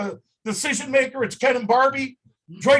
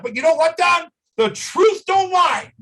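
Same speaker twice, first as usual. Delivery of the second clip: passionate; 3 semitones higher, 3 dB louder than usual. Real, not acted. Founder hyping the truth to Don, passionate. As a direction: announce it like a rallying cry. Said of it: "your passion comes through".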